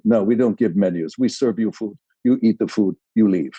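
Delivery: lightly voiced snooty waiter; a touch of haughty waiter, measured phrases. Waiter refusing diners a menu, lightly snooty. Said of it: "this very snooty waiter comes in".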